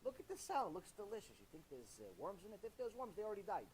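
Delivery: low, hushed sweet-talk; coaxing tempter. Retold or imitated. Evil inclination tempting a man, hushed and coaxing. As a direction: coax him quietly like the evil inclination. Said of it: "Yetzer Hara tells you".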